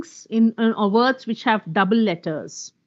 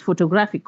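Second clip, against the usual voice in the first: "photographic" with GRAPH stressed; stress on third syllable; 3 semitones lower than usual. Shown as a demonstration. Teacher showing how stress clarifies words, third-syllable stress. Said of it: "The word is on the third syllable".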